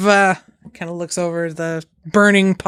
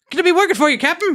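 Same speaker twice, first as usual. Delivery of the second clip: put-on meek old sailor; 10 semitones higher, much faster than usual. DM voices the cowed old captain.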